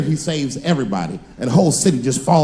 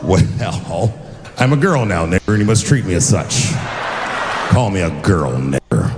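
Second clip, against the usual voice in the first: mocking voice; 9 semitones lower than usual. Mock white person reply.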